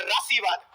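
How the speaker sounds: राशिवाद, with the r sound moved to the front; demonstrated misreading राशिवाद, starting on r; misspelling read out. Shown as a demonstration. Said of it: "इसका उच्चारण कैसे होता है".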